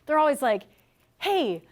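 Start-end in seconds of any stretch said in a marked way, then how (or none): 1.2-1.6 mock the overly friendly door-to-door rep; sugary fake-nice salesman intro; chipper salesperson. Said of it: "super happy and they're being super nice".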